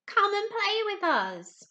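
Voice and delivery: high, loud, slow, coaxing invitation; friendly fish voice. Acted. Other fish inviting the rainbow fish, high playful coaxing. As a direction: coax him over to play. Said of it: "they would call".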